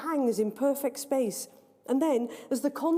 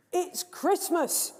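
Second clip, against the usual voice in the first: stating the obvious; 7 semitones higher, much slower than usual. Acted. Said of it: "as though repeating the obvious".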